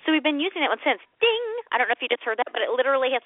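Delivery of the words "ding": imitated bell ding; microwave ding. Mom mimicking her old microwave's timer, bright ding. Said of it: "like, the ding at the end".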